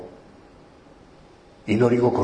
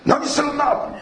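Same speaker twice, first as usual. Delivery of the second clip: startled outcry; 3 dB louder than usual. Retold or imitated.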